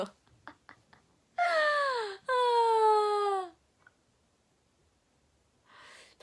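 high, loud burst of laughter; shrieking laugh. Real, not acted.

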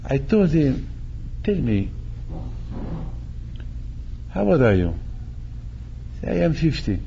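normal talking voice

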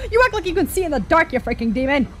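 half-serious exasperated telling-off, starting high; mock scolding. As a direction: berate him in playful outrage.

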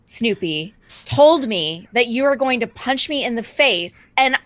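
lightly hammed-up Snoopy evangelist; earnest mock apology. Cult follower explaining to the man she robbed, mock earnest. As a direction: plead with measured, theatrical sincerity.

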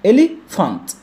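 "إليفانت" in parts, ph sounded as f; split into syllables. Shown as a demonstration. Teacher breaking down a word, "إليفانت" syllable by syllable. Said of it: "مقطع له مقطع والبي اتش منطقها ف".

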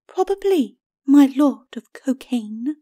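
high, slow, sarcastic lady; mocking skeleton lady. A narrator's reading. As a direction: draw out the mockery. Lady mocks the lord.

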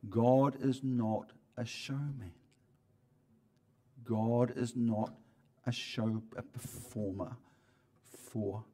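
God is not a showman, each word spaced out slowly; slow it down so they can write it; slow for dictation. Shown as a demonstration. Preacher slowly dictates a point for the congregation's notes. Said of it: "Listen to this. Write it down in your note".

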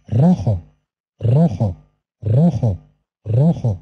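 rojo with a strong rolled r at the start; rolled initial r. Shown as a demonstration. Teacher modelling the rolled r in rojo. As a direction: roll the r of rojo. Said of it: "نطقها حركة ونصف".

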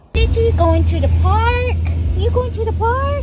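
high excited pet-talk. Real, not acted. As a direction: hype the dog up about the park.

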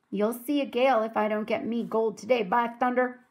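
understated pirate bluster; a touch of shouted threat; mild shout. Acted. Captain Bones threatens Pinky over his gold, mildly shouting. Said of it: "Captain Bones shouted".

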